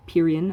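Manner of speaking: "Pyrrhian" as PEER-ee-un; "Pyrrhian" in three beats, PEER first; variant pronunciation. Shown as a demonstration. Lecturer lists ways to say the term, "Pyrrhian" as PEER-ee-un. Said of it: "pronounced a couple of different ways".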